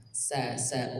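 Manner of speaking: sa को सपाट और पतला कहो; flat thin sa. Shown as a demonstration. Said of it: "bukan so".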